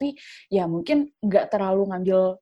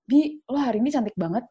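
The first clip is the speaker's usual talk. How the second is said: gentler compliment; 3 semitones higher than usual. Shown as a demonstration. Friend sincerely praises her looks, gentler compliment. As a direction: give the compliment gently, without pushing. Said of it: "Maksudnya kayak lebih halus gitu loh".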